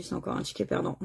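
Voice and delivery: breathy whispered resignation; resigned whisper to himself; whispered aside. Real, not acted. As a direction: whisper it under your breath. Aside after a losing ticket.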